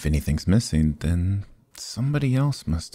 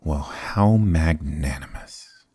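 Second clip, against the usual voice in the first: slow sarcastic whisper; slower than usual. Acted. Rogue answers chief's offer.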